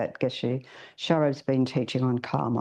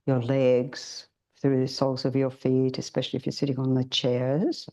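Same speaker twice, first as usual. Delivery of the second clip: guided meditation. Acted. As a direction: ease the group gently into stillness.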